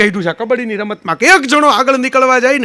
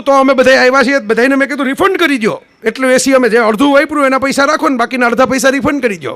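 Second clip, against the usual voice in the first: raised voice; 2 semitones higher than usual. Retold or imitated. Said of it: "તમે મોટા સાદે એમ શરૂ કર્યું".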